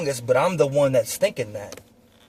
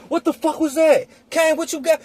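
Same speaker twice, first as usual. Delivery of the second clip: high, stunned demand; imitating shocked passenger; 13 semitones higher than usual. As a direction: voice the friend turning round, amazed. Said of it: "Bro in the passenger seat turns around".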